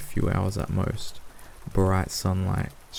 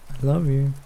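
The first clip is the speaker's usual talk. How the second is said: higher-pitched bird voice; parrot voice; 5 semitones higher, 3 dB louder than usual. A narrator's reading. Parrot on owner's shoulder, squawky affection. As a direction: chirp it like a pet parrot.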